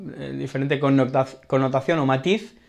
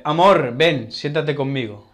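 tender request to partner. Shown as a demonstration. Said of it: "Podemos decirle".

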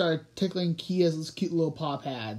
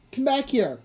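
high-pitched call after a runaway; raised, much higher cry; 8 semitones higher, 4 dB louder than usual. A narrator's reading. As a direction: call them back mid-chase. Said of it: "cried Everest".

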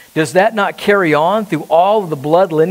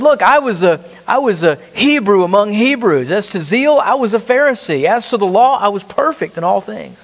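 higher-pitched, insistent listing of credentials; emphatic boasting; 3 semitones higher than usual. Acted. Preacher as Paul listing his Pharisee credentials, emphatic boasting. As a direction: press each credential home like a proud claim.

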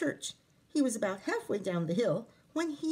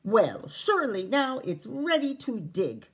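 proudly; 2 semitones higher, 4 dB louder than usual. Acted. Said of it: "Jamie said proudly".

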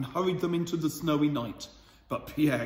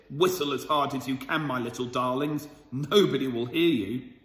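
a touch of taunting, ending louder; mocking butcher; 2 semitones lower, 4 dB louder than usual. Butcher taunting children in the barrel, mild mockery. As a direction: taunt them, lightly voiced. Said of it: "The butcher laughed when he heard it".

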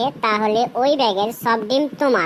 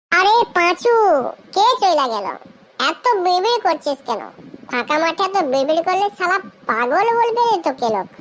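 higher-pitched, exasperated ribbing; scolding friend; 5 semitones higher than usual. Acted. Friend asking Panchu why he mutters, scolding. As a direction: chide him in a raised pitch.

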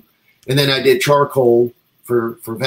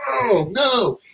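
dismayed oh no; 10 semitones higher than usual. Retold or imitated. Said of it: "I'm like".

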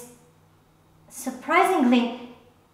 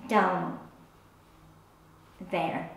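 lowered, softened voice; hushed, reluctant euphemism; discreet euphemism; 5 semitones lower, 8 dB quieter than usual. Acted. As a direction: drop low and quiet on the delicate words. Euphemism interrupts the dream story.

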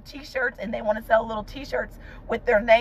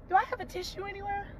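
tearful ask; 7 semitones higher, 11 dB quieter, faster than usual. Real, not acted. Crying on camera, wants tissue.

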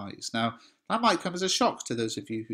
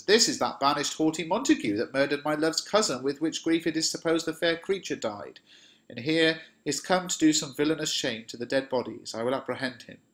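a raised, indignant Shakespeare reading; Paris, stern reading; 5 semitones higher than usual. Acted. A teacher voicing Paris accusing Romeo, indignant. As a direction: read Paris as a young noble accusing Romeo.

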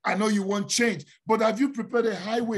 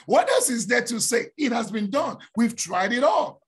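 exasperated outcry; 4 semitones higher, 3 dB louder than usual. Retold or imitated. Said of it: "this voice is saying".

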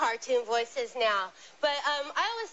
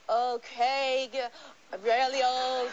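put-on old woman voice; 3 semitones lower, much slower than usual. Shown as a demonstration. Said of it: "I can play really old women".

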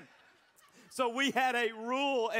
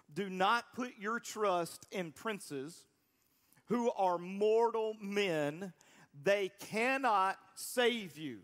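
slow, weighty reading of scripture; much slower than usual. Shown as a demonstration. Pastor reading the psalm to his church, slow and weighty. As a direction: read each phrase slowly so it lands. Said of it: "This is what the Bible says".

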